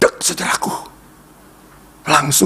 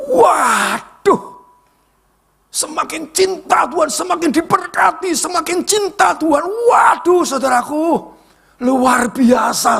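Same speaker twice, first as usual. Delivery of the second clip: ecstatic shout; 14 semitones higher, slower than usual. Real, not acted. Preacher erupts to the congregation over growing blessings, shouting high. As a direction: burst out in overwhelming praise. Peak of sermon testimony.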